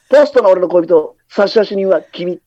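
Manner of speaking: lightly voiced idol crooner; impression of a singer. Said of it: "歌手".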